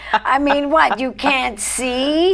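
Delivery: a mild grumpy grandma scolding; cranky old lady. Acted. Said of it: "I love to do the old cranky ladies".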